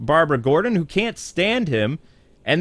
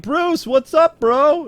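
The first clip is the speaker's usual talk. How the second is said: very high-pitched, hammed-up hello; mock bro greeting; 13 semitones higher, 4 dB louder, slower than usual. Harvey showing up to greet Bruce, mock-excited bro voice. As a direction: call out like an overexcited buddy. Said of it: "And then Harvey shows up".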